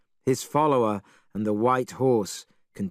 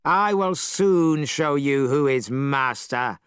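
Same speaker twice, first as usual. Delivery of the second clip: mild threat; slower than usual. Acted. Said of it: "he cried".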